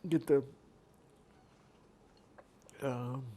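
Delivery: whispered mild exasperation; barely voiced grumble to yourself; muttered under breath. Real, not acted. Vlogger struggling to move a plate, whispering to himself.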